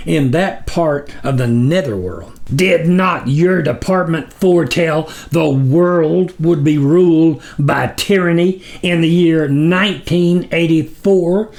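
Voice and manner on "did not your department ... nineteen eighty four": disdainful roar. Acted. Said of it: "in a disdainful roar".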